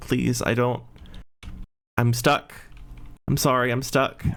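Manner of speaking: put-on whimpering child's voice. Game narrator voicing a child heard over comms in the darkness, small whimpering child voice. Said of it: "a small whimper, and then the words like".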